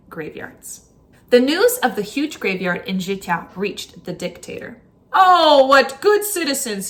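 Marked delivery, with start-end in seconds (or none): 5.1-6.9 mock praise. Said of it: "he said".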